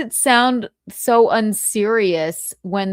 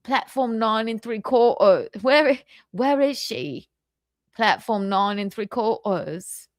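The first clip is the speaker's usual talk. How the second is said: mock British accent. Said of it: "I really can't".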